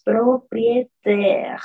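propriétaire said slowly in French, final e silent; French pronunciation. Shown as a demonstration. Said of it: "tenemos que acentuarle aquí fuerza". (propriétaire con pronunciación francesa, sin la e final)

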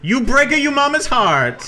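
slow, high mock Italian accent; hammed-up Italian accent, drawn out high. Shown as a demonstration. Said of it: "offensive Italian accent".

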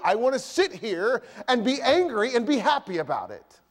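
laughing sulky admission; husband admitting he enjoys being angry, laughing; grumpy confession. Retold or imitated. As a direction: confess the sulk with a chuckle. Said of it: "You say".

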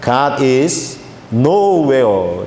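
"nowhere" 한 단어로 또박또박, 느리게; "God is nowhere" 글귀를 천천히 읽듯이; read as nowhere. Retold or imitated. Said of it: "영어로 이렇게 글귀에 써 있어요". (느리게 "nowhere"를 한 덩어리로)

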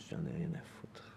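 low, barely voiced; hushed, private dismissal; whispered dismissal. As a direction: let it fall to a whisper. Acted weary dismissal in monologue.

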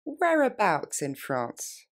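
slow, clear question; slow model phrase. Shown as a demonstration. Teacher modelling a question slowly. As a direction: say it slowly for learners. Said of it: "donc où ça en France".

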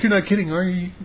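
hardly dares to believe it; hopeful disbelief. Retold or imitated. She checks he means it.

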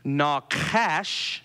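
"nachash" as nah-KASH, short flat A at the end; "nachash" with the last vowel as in "cash"; careful Hebrew pronunciation. Shown as a demonstration. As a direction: sound out "nachash" carefully, ending in "ash". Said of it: "try to get this right".

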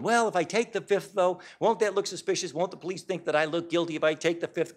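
lightly voiced worried client asking about the fifth; worried questioner. Audience member asking the lawyer, a touch of mock worry. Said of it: "Next question I frequently get".

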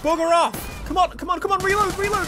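high, loud, frantic pleading; panicked urging. Real, not acted. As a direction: urge it on desperately under fire. Under fire, urging gun to reload.

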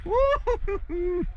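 excited whoop. Real, not acted. Celebrating in game.

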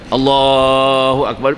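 slow, long-held opening of prayer; prayer takbir. Acted. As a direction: stretch the takbir out as a worshipper restarting. Acts restarting the prayer. (takbir meleret panjang)

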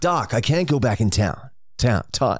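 lightly voiced, halting movie catchphrase; a half-hearted celebrity impersonation; Michael J. Fox. Contestant tries his celebrity impersonation for an extra point, weakly imitated. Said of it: "Michael J. Fox".

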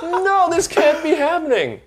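loud, high, drawn-out comic wail; mock despair. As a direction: lament it hugely, half laughing. Acting out horror at getting job.

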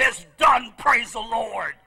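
loud joyful cry; triumphant shout. Retold or imitated. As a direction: shout the victory out. Jumping up in triumph.

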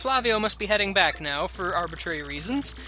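pompous Flavio voice. Acted. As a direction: play the vain nobleman. Flavio taking his leave.

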